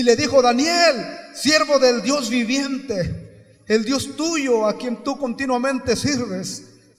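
loud, slow, stretched declamation; ringing pulpit reading, drawn out; preacher's scripture reading. Real, not acted. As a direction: proclaim the verse across the church.

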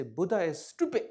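a lightly voiced taunting critic; mock challenger. A heckler telling the Rinpoche Buddha is stupid, light mocking voice. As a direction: toss out the insult like a provocateur. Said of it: "they say".

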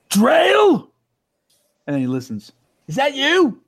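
high, gentle questioning call; not aggressively. Retold or imitated. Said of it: "not aggressively".

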